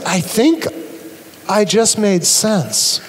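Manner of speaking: put-on a baby marvelling to itself, slowly; hushed slow awe; baby's dawning realization. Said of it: "the baby realizes".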